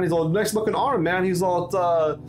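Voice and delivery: cheerful welcome-back ribbing; friendly crewmate. Acted.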